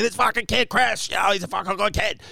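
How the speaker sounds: high-pitched mock glad-handing introduction; Lenny Clark. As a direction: talk someone up like a Boston big shot. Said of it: "You know, like that".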